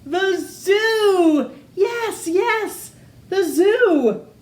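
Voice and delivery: high, loud eureka shout; excited shout. Acted. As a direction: leap up with the idea. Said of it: "she shouted with a jump".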